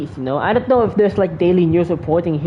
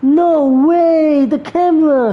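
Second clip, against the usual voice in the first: higher, louder real surprise; surprised outburst; 7 semitones higher, 4 dB louder, much slower than usual. Real, not acted. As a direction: blurt it out amazed. Streamer reacts to vanishing flower.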